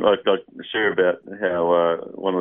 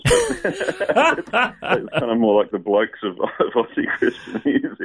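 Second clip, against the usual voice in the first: laughing; 5 semitones higher, slower than usual. Real, not acted. Laughing through self-deprecating joke.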